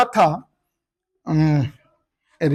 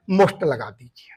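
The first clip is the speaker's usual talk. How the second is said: whisper; 8 semitones lower, 7 dB quieter than usual. Real, not acted. Teacher whispers the rule to the class. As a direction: whisper most लगा दीजिए.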